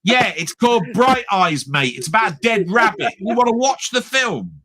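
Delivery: talking back at a clueless YouTuber; exasperated retort. Acted. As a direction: set them straight, exasperated. Mock rant at video reactors.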